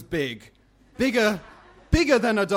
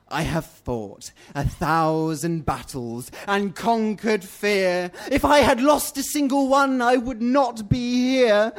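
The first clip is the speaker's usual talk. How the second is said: coarse, scratchy voice. Acted. Red Duck demanding a beautiful voice from the bat, coarse. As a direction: rasp out a proud, commanding boast. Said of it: "has become coarse and tired".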